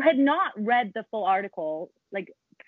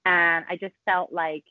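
fake American accent; 2 semitones lower than usual. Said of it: "You sounded Californian for a second".

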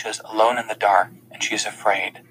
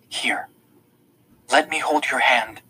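shaky voice; 2 semitones higher than usual. A narrator's reading. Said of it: "Her voice is shaky now".

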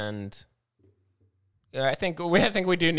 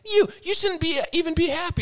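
much higher, half-laughing mock rant; retold rant; 3 dB louder than usual. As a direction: go off on him like you did that night. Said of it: "I went off".

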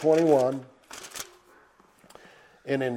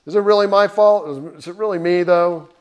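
mock indignant; 4 semitones higher, 6 dB louder than usual. Mocking a careless God reply.

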